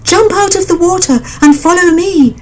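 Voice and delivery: high bird voice, giving orders; commanding mother bird. A narrator's reading. Mother bird ordering the frogs, high. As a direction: lead them off.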